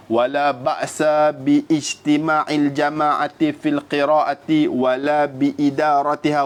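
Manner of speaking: measured, slow Arabic text reading; reciting Arabic text. Acted. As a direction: read out the classical Arabic quotation with care.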